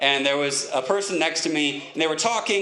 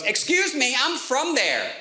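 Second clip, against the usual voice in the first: mild mock angry; 8 semitones higher, slower than usual. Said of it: "this woman gets really angry".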